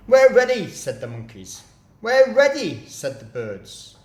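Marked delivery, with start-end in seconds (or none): 0.1-0.7 eager shout. Acted. Monkeys answer Mugglewump eagerly. 2.0-2.8 eager shout. Acted. Birds answer Mugglewump eagerly.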